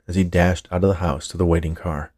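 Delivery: plain reading voice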